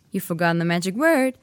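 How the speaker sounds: put-on fast, irritated boy; irritable. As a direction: snap it irritably. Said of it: "said Harry irritably".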